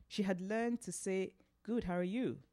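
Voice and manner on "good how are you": sing-song American. Retold or imitated. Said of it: "in that sing-song American way".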